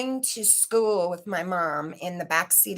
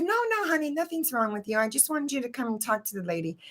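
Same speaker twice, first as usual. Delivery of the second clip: put-on much higher, soothing a worried child; mom reassuring; 5 semitones higher, faster than usual. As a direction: brush it off gently like a mom. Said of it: "And she said".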